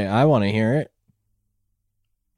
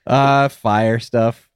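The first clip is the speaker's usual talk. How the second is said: slow evasive mumble; much slower than usual. Acted. Evasive character answer.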